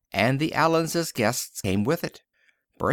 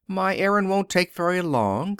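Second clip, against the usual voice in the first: lifted higher, lightly cheerful; bright; 6 semitones higher than usual. A narrator's reading. Frances telling Miss Price her errand, brightly. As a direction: breeze in with cheerful news. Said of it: "said Frances brightly".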